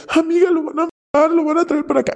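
high-pitched frightened wail; a mimicked cry of dread for a boyfriend; imitating panicked friend. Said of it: "Y ella".

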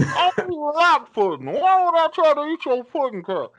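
indignant refusal. Acted. Cosby and Harvey acted exchange.

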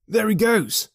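a sudden high, loud cry of discovery; excited cry. A narrator's reading. Clerk spotting the man across the road, excited cry. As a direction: call it out, pointing him out. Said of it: "cried Hall Pycroft".

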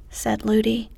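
ordinary delivery

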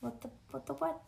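usual speaking voice

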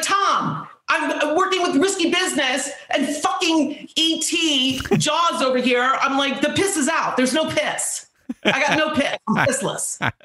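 high-pitched panicked babble; flustered. Retold or imitated. Own panicked reply retold.

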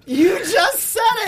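way up high, mock scandalised; squeaky mock gasp. Teasing co-host about spilling gossip, high squeal. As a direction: squeal it, pretending shock. Cracked up retort.

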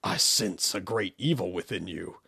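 soft, low, ominous whisper; creepy whisper. Acted. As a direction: whisper a dark warning. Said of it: "he whispered".

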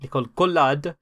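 French-accented name. Real, not acted. Explaining who the photojournalist is, French accent. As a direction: give the name its French pronunciation. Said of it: "say her name like that".

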